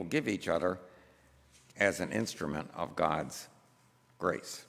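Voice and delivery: measured, emphatic pulpit reading; formal read-aloud. Acted. Preacher reads a book passage to the congregation, measured formal reading. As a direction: read it out deliberately, phrase by phrase.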